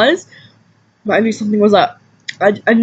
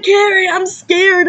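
imitating scared girl; 7 semitones higher, slower than usual. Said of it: "She starts flipping shit".

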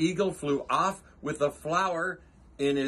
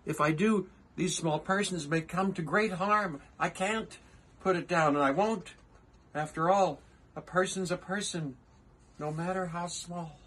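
earnest, higher elephant voice; Horton the elephant; 4 semitones higher than usual. Acted. Horton pleading with the kangaroo, earnest higher voice. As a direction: plead gently as the kind elephant.

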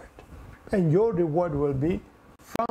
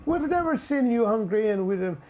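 high, incredulous cry of "when"; raised-pitch, puzzled protest; astonished questioning; 6 semitones higher than usual. Acted. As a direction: act out baffled believers questioning the Lord, pitch jumping up. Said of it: "those five would say".

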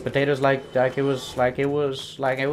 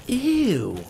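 1 disgusted shriek; 12 semitones higher, slower than usual. Real, not acted. Disgusted at ugly monster.

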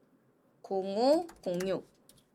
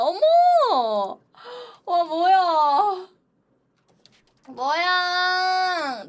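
slow, loud amazed gasp; drawn-out surprise; 7 semitones higher, 7 dB louder, much slower than usual. Real, not acted. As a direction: stretch out the shock. Slow excited gasps.

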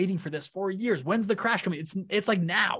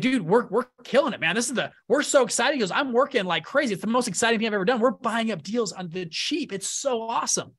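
retold excited dad; 5 semitones higher than usual. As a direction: play the thrilled dad bragging to friends. Dad gushes about real estate.

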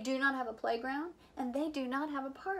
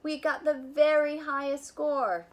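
jubilant roar; 4 semitones higher, 7 dB louder than usual. Acted. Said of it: "he jubilantly roared".

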